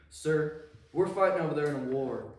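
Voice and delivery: loud, pleading soldier voice; earnest plea. Retold or imitated. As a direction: appeal to the admiral loudly. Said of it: "and he said".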